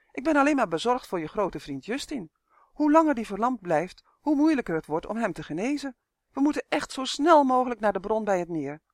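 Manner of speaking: hogere, dringende elfenstem; bezorgde elf. Acted. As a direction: smeek de draak bezorgd om door te lopen. Elf Uf pleads. (elf Uf dringt bezorgd aan bij Leg)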